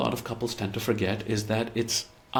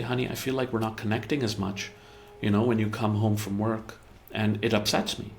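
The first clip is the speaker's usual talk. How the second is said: softened. Retold or imitated. Speaking to a partner about missing them, gently softened. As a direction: ease it in tenderly, no blame. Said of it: "if you just soften it a little".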